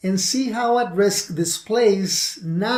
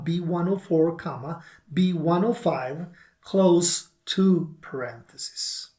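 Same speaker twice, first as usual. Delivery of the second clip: dictating. Shown as a demonstration. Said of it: "This formula should look like this".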